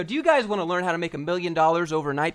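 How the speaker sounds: mocking a get-rich course seller to viewers, loud and high; hyped YouTuber voice. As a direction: sell the fake course like a screaming influencer. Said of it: "this is how you have to be when you open up every single video".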